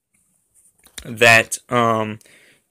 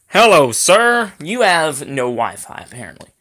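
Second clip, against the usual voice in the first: mock polite voice; 4 semitones higher than usual. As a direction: play a snooty voice taunting him about the Wi-Fi. Mocking the lag as a voice.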